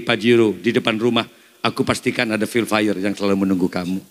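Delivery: soothing husband. Retold or imitated. Husband calming his angry wife with promises. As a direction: sweet-talk her gently. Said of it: "bapak-bapak yang suka dimarahi".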